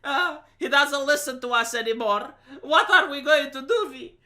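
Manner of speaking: high, loud mock panic; hammed-up wail of a worried mother; panicking wife. Wife frets to husband about their muddy son, mock panicking. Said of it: "she's panicking and she's like".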